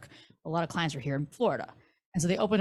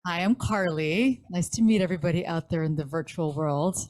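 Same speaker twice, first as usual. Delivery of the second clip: radio voice. Shown as a demonstration. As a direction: announce it like a DJ on air. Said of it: "Let's hear your radio voice saying your name".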